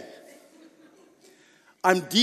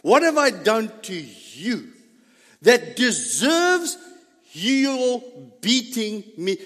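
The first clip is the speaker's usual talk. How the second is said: pleading donkey; slower than usual. Retold or imitated. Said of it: "The donkey telling me this".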